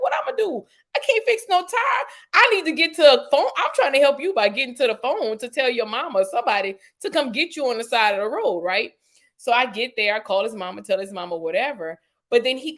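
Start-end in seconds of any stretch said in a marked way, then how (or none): 0.0-8.6 high, laughing exasperation; high exasperated protest. Retold or imitated. To the angry boyfriend, high exasperated protest. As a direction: pitch it up like it's obvious. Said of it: "I'm like".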